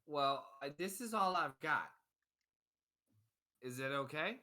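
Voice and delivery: humble poor dad; apologetic father. Acted. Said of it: "And he goes".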